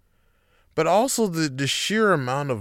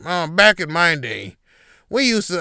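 put-on grumpy old man; 3 dB louder than usual. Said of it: "And he's like".

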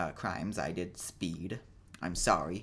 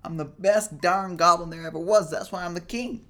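put-on high-pitched boastful kid; imitated child bragging in a raised, strained pitch; proud child goblin; 9 semitones higher, 7 dB louder than usual. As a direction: crow it high and loud like a little goblin king. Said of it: "He was like".

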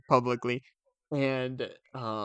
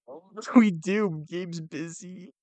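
feigned helplessness; 6 semitones higher, slower than usual. Pretend. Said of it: "to really sell it up".

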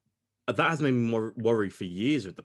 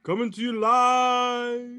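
drawn-out, high hype-man intro; show announcer; 12 semitones higher, 7 dB louder, much slower than usual. Acted. Opening the podcast for listeners, slow booming announcer voice. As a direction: stretch every word like a ring announcer. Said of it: "I hate the way I say that".

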